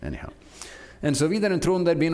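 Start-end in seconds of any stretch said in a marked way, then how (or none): 1.3-2.1 the names Vidar and Trond in a lightly put-on Norwegian accent. Shown as a demonstration. Preacher redoing his friends' names for the congregation in a Norwegian accent. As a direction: give Vidar and Trond a playful Norwegian lilt. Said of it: "I knew you'd like me to say that in Norwegian accent".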